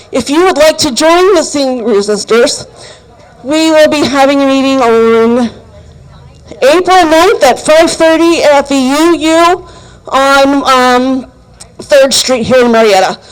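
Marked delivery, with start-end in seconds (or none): 3.4-13.2 shaky voice from the cold; shivering. Real, not acted. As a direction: talk while shivering in the cold. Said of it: "Sorry, I'm freezing, so I'm a little shaky".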